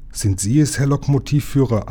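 ordinary delivery, nothing marked

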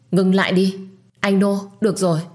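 loud, urgent call to stop; shouting stop. Acted. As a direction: yell at him to stop. Narrator stops the beating. (hét lên ngăn lại)

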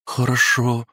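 small, high, scared reply; timid. A narrator's reading. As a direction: say it meekly, frightened. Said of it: "зашуганно произнесла она".

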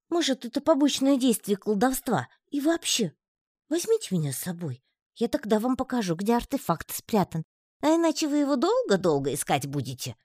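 выше, торгующийся тонкий голосок; выторговывай место в отряде тонко; хитрый паучок. A narrator's reading. (паучок уговаривает взять его: тонкий голосок торгуется)

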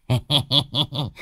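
showy high cackle; boastful laugh. A narrator's reading. Old medium Đồng boasting to Lâm, cocky laugh. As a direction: laugh to show off. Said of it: "vảnh mặt ra oai".

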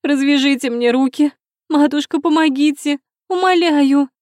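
high, loud desperate shrieks; frantic screaming. A narrator's reading. Tied-up princess begging to be released, frantic screaming. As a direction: scream from unbearable itching.

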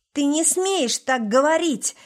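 high, loud indignant shout; choking with indignation. A narrator's reading. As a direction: splutter it out in outrage. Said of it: "захлёбывался от негодования сын".

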